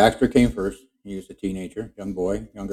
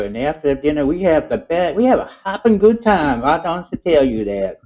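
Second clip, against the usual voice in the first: higher, louder folksy frog bragging; Kermit voice; 4 semitones higher, 3 dB louder than usual. Retold or imitated. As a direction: boast about the girlfriend in the pond, pitched up. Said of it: "He says".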